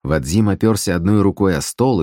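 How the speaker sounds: usual speaking voice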